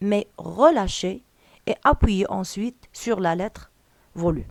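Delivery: slow, deliberate instruction reading; slow dictation read. Acted. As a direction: read each French word out slowly and clearly, like dictating to a class. (قراءة تعليمية بطيئة ومتأنية)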